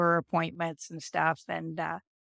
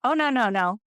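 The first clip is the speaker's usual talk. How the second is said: alarmed refusal; 5 semitones higher, 5 dB louder than usual. Retold or imitated. Stopping the sugar-water IV bag.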